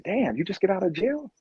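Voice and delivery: high, casual street hustler voice; drug dealer's call. Retold or imitated. A Skid Row drug dealer calling to a runner, high and easygoing. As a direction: sweet-talk the runner into stopping.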